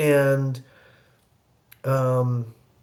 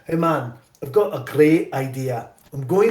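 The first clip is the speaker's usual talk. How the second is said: director's Scottish lilt, imitated; imitated Scots accent; Scottish brogue. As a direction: pitch an idea in a Scottish brogue. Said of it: "he has this great brogue".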